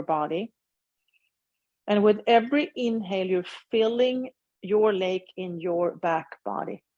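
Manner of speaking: unhurried guiding voice with long pauses; measured meditation-teacher delivery; guided meditation. Acted. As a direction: lead them gently through a body scan, leaving space after each phrase. Leads a meditation.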